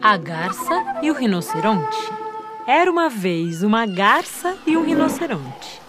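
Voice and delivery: put-on gentle story narration for children; fireside storytelling. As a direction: tell the tale warmly to children. Reads story aloud to children. (contação de histórias)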